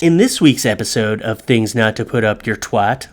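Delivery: plain read of the show intro; first take of intro. Shown as a demonstration. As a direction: read the title through, low-key. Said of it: "let me do this again".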